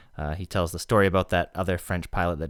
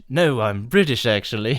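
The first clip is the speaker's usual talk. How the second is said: a light put-on British accent, a touch louder; mock British accent; 4 semitones higher, 5 dB louder than usual. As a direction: toss it off in a hammed-up British accent. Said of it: "an Austin Powers reference".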